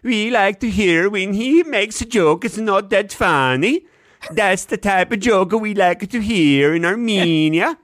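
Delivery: put-on slow, high Armenian accent. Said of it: "the Armenian accent that I've just given you the example of".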